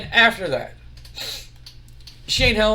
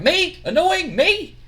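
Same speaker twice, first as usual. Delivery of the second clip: much higher, louder, outraged squawk; offended disbelief; 11 semitones higher, 4 dB louder, slower than usual. Retold or imitated. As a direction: shriek it out like someone insulted. Jeff offended at being annoying.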